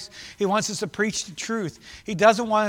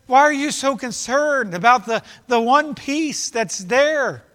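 raised, insistent question, slowing at the end; exasperated questioning; 7 semitones higher, 7 dB louder, slower than usual. Acted. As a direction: press the disciples with mild exasperation. Voicing Jesus questioning the disciples' worry.

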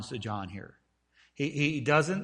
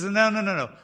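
louder and higher, firm no's; Jesus flatly rejecting the idea, louder; emphatic denial; 5 semitones higher, 5 dB louder than usual. Acted. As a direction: stamp out each no. Jesus answers his own question.

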